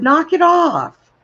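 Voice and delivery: high, slow, loud yell; yelling at brother. Retold or imitated. Sister warning her pestering brother, slow loud shout. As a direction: draw out each word in a loud warning shout. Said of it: "I said".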